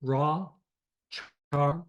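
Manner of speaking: "Ra" and "Char" isolated, open A; stressed syllables alone, Ra and Char with a long ah; accented syllable shown. Shown as a demonstration. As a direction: give just the stressed "Ra", then "Char". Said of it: "accent is on the A".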